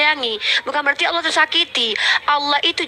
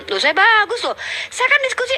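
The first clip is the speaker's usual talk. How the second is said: indignant protest; 9 semitones higher than usual. Real, not acted. Defending himself in debate.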